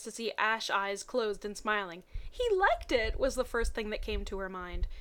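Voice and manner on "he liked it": thrilled squeal. Acted. Misty's thrilled thought.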